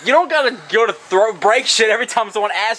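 scolding Dad for breaking things; exasperated scolding. Real, not acted. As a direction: rattle it off in exasperation.

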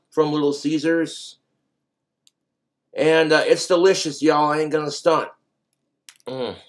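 chewing while talking; muffled by food; mouth full. Real, not acted. Seen 2: Bite near -3s; lips work food while talking, pizza in hand.

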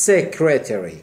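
secretary said "SEK-re-te-ri"; short "e" opening secretary; noun pronunciation. Shown as a demonstration. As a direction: model secretary clearly as "sek-", not "seek-".

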